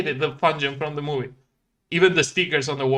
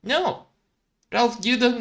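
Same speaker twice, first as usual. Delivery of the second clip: Felix refusal; 6 semitones higher than usual. Acted.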